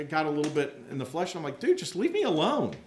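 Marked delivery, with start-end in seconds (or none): 1.6-2.7 short with him, pushing him away; curt. Retold or imitated. Student to man wanting his table, curt and annoyed. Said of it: "I kind of got a little short with him".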